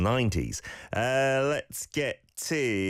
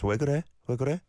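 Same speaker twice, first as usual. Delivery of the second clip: higher, rising check on someone; lightly acted concern; concerned question; 6 semitones higher, much faster than usual. Shown as a demonstration. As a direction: ask as if checking on someone downcast. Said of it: "someone's looking sad and down".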